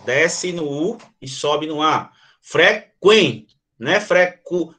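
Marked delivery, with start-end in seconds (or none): 2.4-3.6 "Frequente" with "quen" as one gliding syllable; correct diphthong. Shown as a demonstration. Teacher models "Frequente" for the class, correct diphthong. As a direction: say "Frequente" in two beats, fre-quen, U gliding into E. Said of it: "não é frequente".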